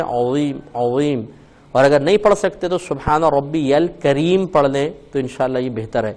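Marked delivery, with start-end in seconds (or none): 0.0-1.2 العظیم said slowly with a heavy ظ; heavy zoe. Shown as a demonstration. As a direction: make the ظ in العظیم thick. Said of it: "موٹا پڑھیں". (ظ کو موٹا پڑھنا)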